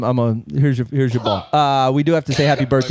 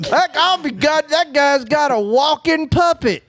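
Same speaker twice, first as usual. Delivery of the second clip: high, drawn-out mock astonishment; hammed-up amazement, pitched way up; 10 semitones higher than usual. Spectator marvels at a walking puppet, mock amazed.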